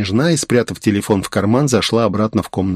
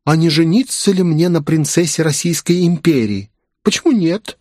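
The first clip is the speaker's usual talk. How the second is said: higher, hammed-up careless prince; mocking the prince; 8 semitones higher than usual. Princess mocking the prince's whim, mock high voice. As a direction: mimic him as a smug fool. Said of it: "Проснулся утром и такой".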